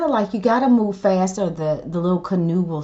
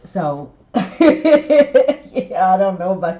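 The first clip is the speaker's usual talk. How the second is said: laughing; 5 dB louder, slower than usual. Real, not acted. Laughing about her irksome son.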